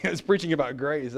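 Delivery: chuckling through the line; amused laughing repeat. Shown as a demonstration. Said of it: "I wasn't angry".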